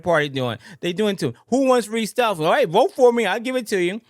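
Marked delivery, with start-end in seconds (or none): 1.5-4.0 mock politician. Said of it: "That's what they're saying".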